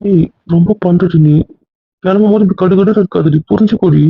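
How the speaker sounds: pleading. Real, not acted. Husband pleading with upset wife.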